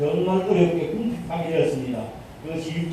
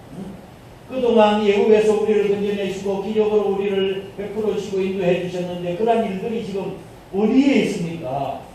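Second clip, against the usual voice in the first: complaining; 2 semitones higher than usual. Retold or imitated. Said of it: "라고 감히 불평하고 있는 거예요".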